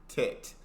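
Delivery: "Tet" with crisp final T. Shown as a demonstration. Viewer practising the lesson, "Tet" ending in T. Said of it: "that's something I can do".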